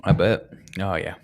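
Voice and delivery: crunching ice while talking; ice in mouth. Real, not acted. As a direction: talk around a mouthful of ice. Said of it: "I like crunching my ice".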